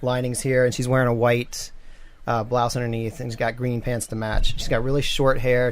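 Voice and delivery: ordinary delivery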